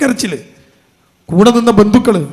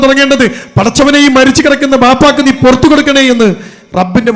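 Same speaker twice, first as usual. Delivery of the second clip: raised, urgent sermon delivery to the congregation; impassioned preaching; 3 dB louder than usual. Acted. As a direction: drive the warning home to the listeners. Fervent exhortation to mothers. (ആവേശത്തോടെയുള്ള പ്രസംഗം)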